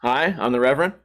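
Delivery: low, lightly voiced reverend; reverend's introduction. Reverend comes over to greet him, lightly imitated in a low voice. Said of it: "He goes".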